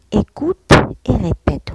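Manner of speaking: teacher calling out the exercise; announcing instruction. Shown as a demonstration. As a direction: announce it to the class. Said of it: "reads the instruction".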